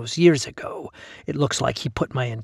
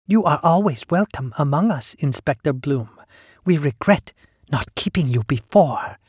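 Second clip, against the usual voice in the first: monster voice; 3 semitones higher than usual. Acted. Held voice of Sister Lee.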